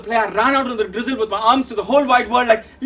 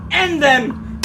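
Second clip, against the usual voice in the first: theatrical recitation. Acted. Actor playing Hamlet on stage, declaimed. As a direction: declaim Shakespeare, building in force.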